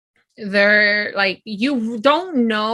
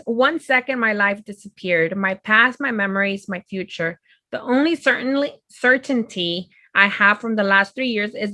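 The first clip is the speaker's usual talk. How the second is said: steady reading voice; a light reading of the book blurb; blurb read aloud. Real, not acted. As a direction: read the back cover straight through.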